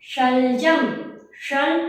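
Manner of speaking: "शलजम" with the tongue up on the palate for श; palatal sh demo. Shown as a demonstration. Teacher showing children where the tongue hits in "शलजम", careful palatal demo. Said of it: "तो आपकी जीभ ऊपर टकरा रही होगी तालु पे".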